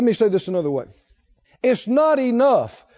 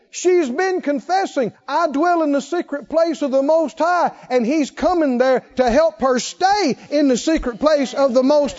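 higher and louder, pressing each point home; fiery preaching; 6 semitones higher, 3 dB louder than usual. Acted. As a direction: preach it hard to the congregation. Preaching at full force.

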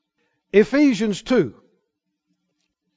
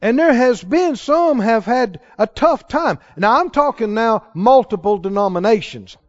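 ordinary talk

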